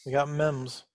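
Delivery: "memes" said as "mems", with a short e; misspelling read aloud. Pretend. Reading the misspelled channel name, "memes" pronounced "mems". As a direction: say "memes" to rhyme with "gems". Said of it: "Memes sounds like members".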